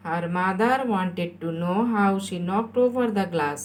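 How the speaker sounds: drawn-out, deliberate words; slow dictation. Shown as a demonstration. Teacher repeats the sentence for pupils, very slow dictation. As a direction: dictate it very slowly.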